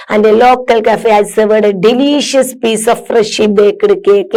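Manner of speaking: slow read-aloud. Acted. Teacher reads textbook passage.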